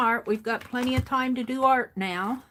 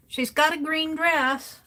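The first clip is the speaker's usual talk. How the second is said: higher, louder rueful repeat; amused dismay; 5 semitones higher, 4 dB louder than usual. Shown as a demonstration. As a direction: say it again with a laughing groan. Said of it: "So she's got a green dress".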